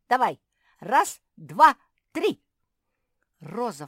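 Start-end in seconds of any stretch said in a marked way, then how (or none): 0.1-2.4 звонкий громкий счёт на раз-два-три; командуй во весь голос, подгоняя; громкая команда. A narrator's reading. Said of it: "скомандовала Пагль". (громко и высоко скомандовать)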